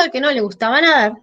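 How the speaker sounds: "nadar" dropping to close, a bit quick; final falling tone. Shown as a demonstration. Teacher repeating the final tone for students. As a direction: land the fall on "nadar". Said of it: "lo que hago es dar un tono final".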